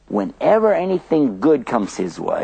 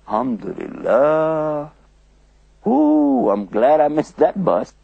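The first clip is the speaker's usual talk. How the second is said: relieved; 2 semitones higher, slower than usual. Pretend. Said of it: "So what should I say?".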